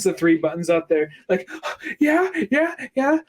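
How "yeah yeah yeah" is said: much higher, playful cooing voice; mock flirty princess. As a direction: lure him then ask for someone else.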